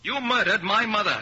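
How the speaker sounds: stunned fury at her; accusing cry; horrified accusation. Acted. Peter accuses Ethel.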